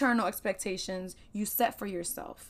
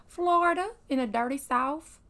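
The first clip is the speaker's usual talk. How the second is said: hyped up; 4 semitones higher than usual. Real, not acted. Proudly hypes her home state.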